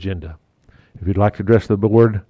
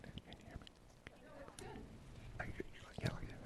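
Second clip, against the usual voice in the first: barely audible, words spaced out; whisper; 32 dB quieter than usual. Shown as a demonstration. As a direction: mouth each word silently. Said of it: "I wasn't saying anything".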